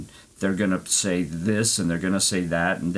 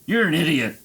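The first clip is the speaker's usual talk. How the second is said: higher, louder exasperated yell; 10 semitones higher, 5 dB louder than usual. Retold or imitated. Shouting at the booking AI for sending him to the Rio, loud and high. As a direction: tell the AI off at full volume. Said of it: "I started yelling at A I".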